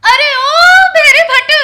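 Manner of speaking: put-on loud angry yell at the deaf old man; angry wife bellowing; yelling at him. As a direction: shout him down, furious.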